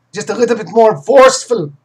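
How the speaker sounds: forceful mock Russian accent; lightly put-on Russian accent. Shown as a demonstration. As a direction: lean hard into a rough Russian accent. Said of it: "I could do Russian accent".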